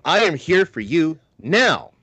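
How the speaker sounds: high, slow, emphatic New York priest impression; New York priest accent. Priest reassuring his parish, drawn-out mock New York accent. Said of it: "that's what he does".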